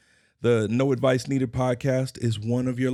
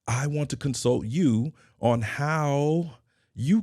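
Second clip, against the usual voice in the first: slow, leaning hard on how; stress on how; 3 semitones higher than usual. Shown as a demonstration. Host to listeners, stressing how. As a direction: draw out how and make it the word that lands. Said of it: "Emphasis on the word how".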